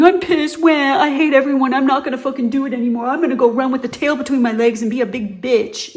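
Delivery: mock a crybaby quitter; mocking whiny. Mocking people who whine instead of solving problems, whiny. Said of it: "instead of going".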